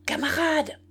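high ringing call to the men; commanding cry, pitched high; thundering call. A narrator's reading. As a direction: call out to halt a crowd. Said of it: "cria une voix tonnante".

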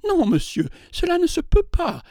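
heated, rising protest; growing animated. A narrator's reading. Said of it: "s'animant à mesure qu'elle parlait".

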